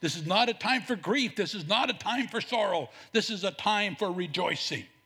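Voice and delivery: normal talking voice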